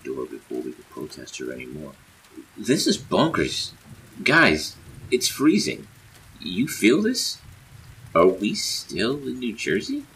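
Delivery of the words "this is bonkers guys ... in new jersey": loud, high exclamations; high-pitched, worked-up calling; excited disbelief. A narrator's reading. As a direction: shout it out in amazement. Acted disbelief at freezing weather.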